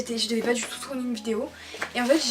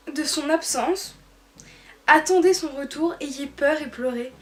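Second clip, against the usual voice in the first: measured recital with pauses between phrases; poem reading; 2 semitones higher than usual. Acted. Vlogger reading her teenage love poem to viewers, measured recital. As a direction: read it line by line, letting each phrase land.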